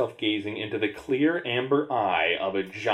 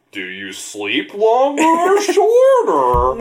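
high, loud, slow fake sob; mock crying voice; 8 dB louder, much slower than usual. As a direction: whine it like crying. Mocking choices in crying voice.

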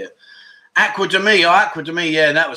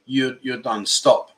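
slow reread; 3 semitones lower, slower than usual. Shown as a demonstration. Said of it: "Well, to say "Stop me".

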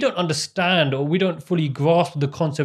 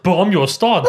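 laughing quote; 4 semitones higher, 6 dB louder than usual. Real, not acted. Quoting brother while laughing.

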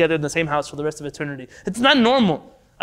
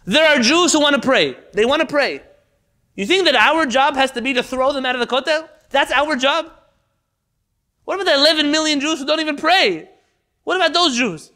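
louder, higher, impassioned pleading; emotional outburst; 7 semitones higher, 4 dB louder than usual. Real, not acted. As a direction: cry out in real hurt and frustration. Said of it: "forgive me if I'm emotional about this".

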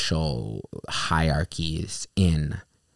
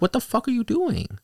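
angry yell. Retold or imitated. Yelling at the driver who ran over a foot, high and furious. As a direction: scream at the driver in shock. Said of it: "I'm like".

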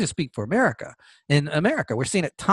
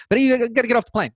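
quick, higher-pitched retold steward; another steward voice; 5 semitones higher, faster than usual. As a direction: lightly voice a steward, fast and raised in pitch. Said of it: "I'm doing another voice just so".

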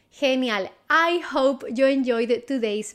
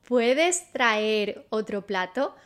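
slowed, careful Spanish for learners; slow model phrase; slower than usual. Shown as a demonstration. Teacher models the Spanish question slowly for students. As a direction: lay it out slowly to be repeated. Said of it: "How do you say that?".

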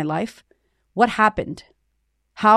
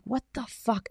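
muttered what the fuck; 3 semitones higher, 11 dB quieter, slower than usual. Retold or imitated. Baffled at own anger.

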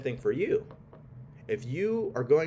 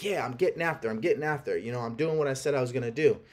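mock excited; faster than usual. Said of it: "you're really excited".

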